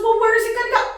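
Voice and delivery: mock husband calling across the yard; retold husband's reply. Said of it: "And he goes".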